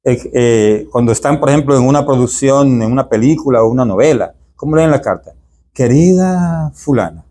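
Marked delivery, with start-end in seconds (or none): 5.7-7.2 sweet letter tone. Shown as a demonstration. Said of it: "va en ese tono así".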